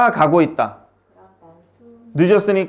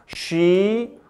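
slow dictation; much slower than usual. Shown as a demonstration. Teacher dictating example sentence.

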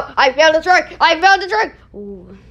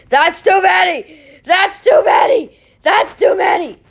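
frustrated shout; 5 semitones higher than usual. Real, not acted. Kid losing at Jenga game.

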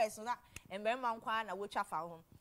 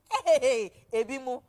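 calling out; 3 semitones higher, 10 dB louder than usual. Real, not acted. Calling out to Ebimu.

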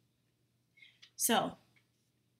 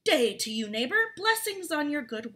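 polite greeting; 3 semitones higher than usual. Acted. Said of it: "Politely saying".

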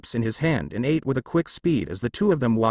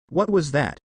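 screeching; 3 semitones higher than usual. Acted. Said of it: "screeched the girl".

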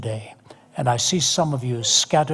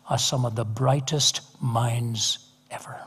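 whispered praise; 3 semitones lower, 6 dB quieter than usual. Real, not acted.

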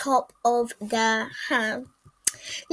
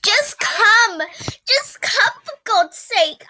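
impatient; 8 semitones higher, 4 dB louder, slower than usual. Pretend. Impatient insisting.

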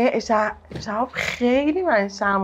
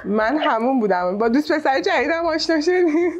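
put-on crying; 4 semitones higher than usual. Girlfriend phoning her boyfriend's friend about him, put-on crying. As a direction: pretend to sob to the friend.

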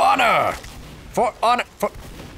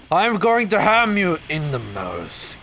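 slow, drawn-out playful threat; put-on villainous threat; mock menace; slower than usual. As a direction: threaten slowly, hammed up. Mock threat during game.

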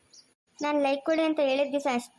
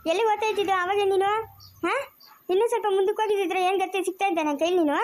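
scolding grandma; 6 semitones higher, 3 dB louder than usual. Acted.

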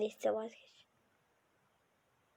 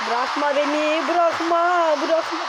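rising frightened begging, getting louder; panicked pleading; 2 semitones higher, 3 dB louder, slower than usual. Real, not acted. On a VR ride, begging not to be let go, panicked. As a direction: beg them not to let go, voice climbing.

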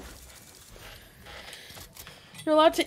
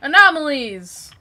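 loud call-out; 3 semitones higher, 9 dB louder than usual. Real, not acted. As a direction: call them out loudly. Calling out in game.

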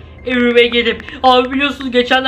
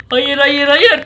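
panicked cry; slower than usual. Acted. Refusing in panic.

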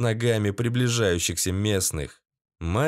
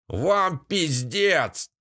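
roared; 4 semitones higher, much slower than usual. A narrator's reading. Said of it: "проорали в ответ".

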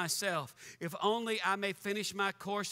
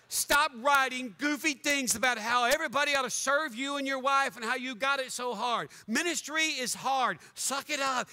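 louder exasperated rebuke; angry rant; 3 semitones higher, 3 dB louder than usual. Real, not acted. Preacher ordering the blogging pastor to stop, angry rant. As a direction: tell him off hard.

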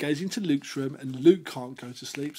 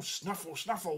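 hedgehog snuffle; 5 dB quieter than usual. Acted. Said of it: "went the hedgehog".

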